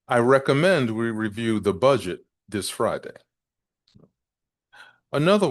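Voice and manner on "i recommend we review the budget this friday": "recommend" and "budget" stressed, falling close on "Friday"; key-word emphasis. Shown as a demonstration. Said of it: "I'll repeat".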